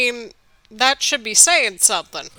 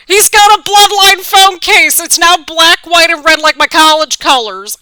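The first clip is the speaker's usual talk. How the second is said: excited; 5 semitones higher, 10 dB louder than usual. Real, not acted. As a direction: announce it thrilled. Excited about phone case.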